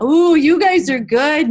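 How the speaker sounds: high, loud, impressed teacher voice; excited praise. Pretend. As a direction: cheer the children on. Teacher praising imagined children.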